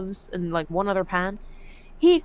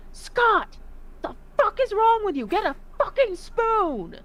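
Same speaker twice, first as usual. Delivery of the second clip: exasperated yelling; 11 semitones higher than usual. Retold or imitated. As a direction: bark at him in disgust, high. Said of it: "He's like".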